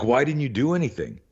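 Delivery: high-pitched, acted disbelief; incredulous questioning. Coach to student who got punched, incredulous. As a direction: question him as if you can't believe it.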